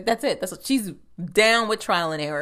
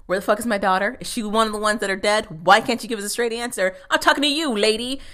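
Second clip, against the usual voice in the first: frantic dad; 2 semitones higher, 4 dB louder, faster than usual. Retold or imitated. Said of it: "playing a frantic, desperate man".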